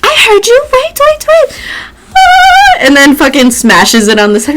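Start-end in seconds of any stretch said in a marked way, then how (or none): 0.0-1.6 much higher mock-operatic fussy voice; a grand portrait shushing the boys impatiently; fat lady portrait. Fat lady portrait stalling the boys at the door, high mock-grand voice. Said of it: "and she's like". 2.1-2.8 much higher, louder sung soprano note; operatic shriek. Retold or imitated. Fat lady portrait trying to shatter a glass, a sung high note. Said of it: "and she's like".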